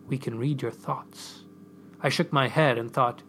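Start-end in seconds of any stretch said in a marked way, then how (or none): 0.1-1.4 slow, soft telepathic message; hushed, deliberate revelation; without moving lips. A narrator's reading. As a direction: speak it softly and slowly, as a thought. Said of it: "without moving her lips".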